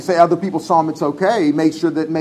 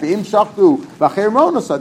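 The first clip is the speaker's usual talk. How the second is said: louder, each word of "V'im Shachtu, V'acherim Ro'anosan" pressed home; emphatic proposed wording; 4 semitones higher, 5 dB louder than usual. Shown as a demonstration. Teacher showing students how the Mishnah should read, loud and emphatic. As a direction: lay it out like the correct text. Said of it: "Just say it like that".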